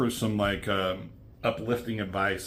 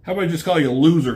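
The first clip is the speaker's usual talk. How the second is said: higher, louder and very fast, a hammed-up bully jeer; mock loud taunt; 6 semitones higher, 7 dB louder, much faster than usual. Juggernaut mocking Gambit before flicking him away, in a loud mock jeer. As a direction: blurt the insult like a gloating brute, mock.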